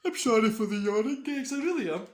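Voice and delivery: high loud put-on voice; mock apology. Streamer apologizes to viewers, hammed-up high voice. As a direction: ham up a sorry to the viewers.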